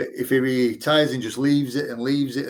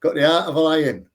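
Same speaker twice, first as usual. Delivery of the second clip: put-on light Irish Traveller accent, quoting uncle; lightly put-on Traveller accent; gypsy accent; 5 semitones higher than usual. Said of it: "excuse my, uh, gypsy accent as well".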